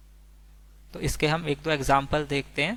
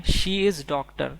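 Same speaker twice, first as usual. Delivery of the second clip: She is doctor drawn out word by word; very slow; 3 dB louder, much slower than usual. Shown as a demonstration. Teacher reading the English sentence very slowly. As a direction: drag each word out for learners. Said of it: "अगर हमें बोलना है".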